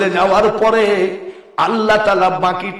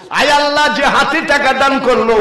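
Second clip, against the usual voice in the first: high chanted supplication; imploring prayer; 7 semitones higher, 4 dB louder than usual. Real, not acted. Preacher praying for the donor, high chanted plea. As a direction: lift the prayer high and call it out.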